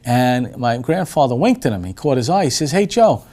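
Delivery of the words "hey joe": higher, louder retold call; retold hail to a coworker. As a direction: imitate calling someone over. Grandfather calls over the chef.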